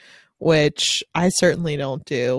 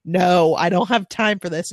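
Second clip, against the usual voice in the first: slow, emphatic refusal; firm refusal; 4 dB louder than usual. Acted. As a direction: put your foot down, drawing it out. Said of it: "And I'm like".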